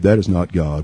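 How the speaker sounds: ordinary talk, nothing marked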